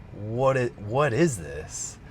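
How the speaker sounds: slow, stretched, stunned question; awed wonder. Retold or imitated. To herself under the electric sky, slow and stunned. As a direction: marvel at something beyond belief. Retelling awe at the heavens.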